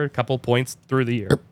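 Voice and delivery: words pushed out through a burp. Real, not acted. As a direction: burp while talking. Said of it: "Ooh, burp".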